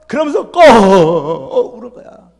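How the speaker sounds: slow, choked-up retelling; a touch of crying, slowed; tearful. Retold or imitated. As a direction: let the voice catch on the tears. Retelling mother's weeping.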